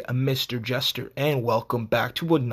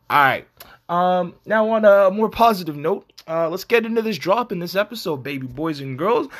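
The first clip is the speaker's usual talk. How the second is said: upbeat announcer; 4 semitones higher, 4 dB louder than usual. Acted. Switch to upbeat drop intro.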